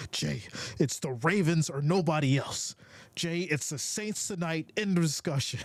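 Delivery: a light mock of a bossy fan laying down the law; hint of a stubborn fan, only lightly voiced. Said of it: "Lisa, you so angry".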